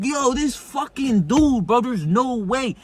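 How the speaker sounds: high, drawn-out incredulous reaction; retold disbelief. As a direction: stretch it out high, stunned by what he did. Reenacting his disbelief at the film.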